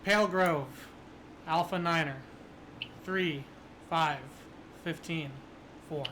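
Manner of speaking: robotic monotone radio voice; numbers station monotone. Acted. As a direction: read the numbers flat like a machine. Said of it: "this very robotic, you know, monotone voice".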